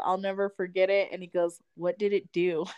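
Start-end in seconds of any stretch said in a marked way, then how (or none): 1.8-2.6 lightly giggled question; giggling brother. Retold or imitated. Older brother giggling, asking about the ghost. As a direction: ask it through a knowing giggle. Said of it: "he did that giggle".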